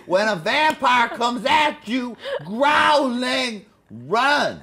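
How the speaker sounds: slow, shouted warning; dramatic shout. Acted. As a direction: bellow the warning slowly. Mock survival tip.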